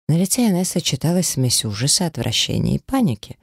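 ordinary delivery

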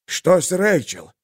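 tense, shaky, slow question; shaking with effort. A narrator's reading. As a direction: voice trembling with strain. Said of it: "дрожащим от напряжения голосом спросил он".

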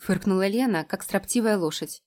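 usual speaking voice

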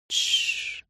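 unvoiced soft shushing. A narrator's reading. Minnie shushes the sick Ray back onto the pillow. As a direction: hush him back down gently. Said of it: "уложила его обратно".

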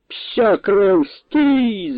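high, alarmed cry; nobleman yelling. A narrator's reading. Old nobleman yelling at his sons to stop, high shriek. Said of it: "зарепетував пан".

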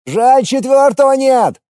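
high, loud annoyed shout on the run; shouting while running. A narrator's reading. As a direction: call out in frustration mid-run. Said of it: "С досадой на бегу прокричал Костя".

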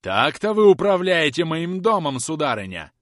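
громкий, высокий гневный упрёк; отчитай её гневно. A narrator's reading. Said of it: "гневно продолжал мистер Домби". (хозяин дома гневно упрекает экономку)

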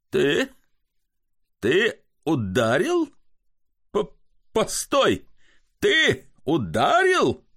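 put-on a drunk who can't believe he was struck; stunned disbelief. Drunken comic to barber, shocked and rising high.

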